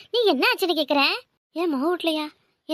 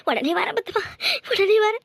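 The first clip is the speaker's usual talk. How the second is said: tearful plea; 3 semitones higher than usual. Acted. Distressed mother near tears.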